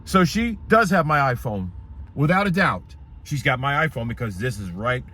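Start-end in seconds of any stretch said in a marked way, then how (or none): 3.2-5.0 stumbling over words; stuttering. Real, not acted. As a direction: trip over the words in shock. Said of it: "Look, I'm stuttering".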